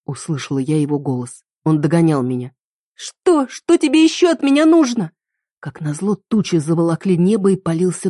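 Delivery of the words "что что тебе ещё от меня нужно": high, loud, desperate cry; a girl shouting at the man chasing her; exasperated outburst. Acted. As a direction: turn on him in despair. Heroine turns on pursuing lover.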